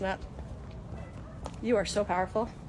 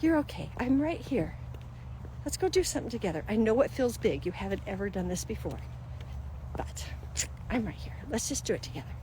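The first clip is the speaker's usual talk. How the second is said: God comforting you; 5 dB quieter than usual. Retold or imitated. God reassuring a frightened believer, soft and tender. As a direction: comfort a scared child gently. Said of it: "He can say".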